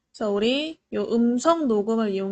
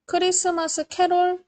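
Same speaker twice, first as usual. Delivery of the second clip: higher, louder spoken command; talking to voice assistant; 7 semitones higher, 3 dB louder than usual. Shown as a demonstration. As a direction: call it out clearly to the phone. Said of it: "그러면 이렇게 관련된 음악들을".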